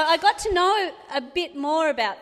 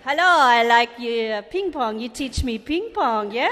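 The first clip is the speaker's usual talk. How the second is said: a hammed-up fake Asian accent on a prank call, the greeting louder; mock Asian accent; 7 dB louder than usual. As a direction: prank caller putting on a put-on Asian accent, loud hello. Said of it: "I'll try and do an Asian voice".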